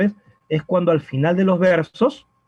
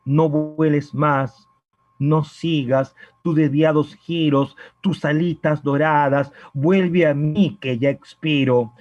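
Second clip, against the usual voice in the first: slow poem recitation. Acted. Teacher reciting the dove poem for the student, slow and pleading. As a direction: linger on each line like a plea to a lost love.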